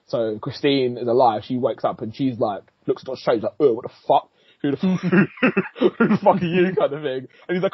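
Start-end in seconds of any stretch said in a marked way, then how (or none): 3.6-6.7 higher mock disbelief, breaking into laughter; laughing mock shock. Retelling Christine seeing the monster, laughing in mock shock. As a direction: crack up while imitating a shocked reaction.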